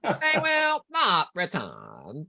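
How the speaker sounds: very slow, droning robotic voice; Cyberman voice. Pretend. Host showing off his practised Cyberman impression, slow drone. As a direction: intone it like a cold machine. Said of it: "I've been practicing cyber voices all day".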